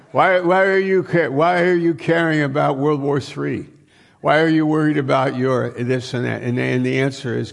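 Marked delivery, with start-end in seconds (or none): 0.1-6.4 pitched up, louder, urgent why questions; animated questioning. Acted. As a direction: fire the questions at them eagerly. Preacher voicing God's probing questions.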